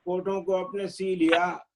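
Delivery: measured couplets with pauses; ghazal recitation. Acted. Poet sharing an old ghazal with friends, measured recitation. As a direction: recite the verse deliberately, half-line by half-line.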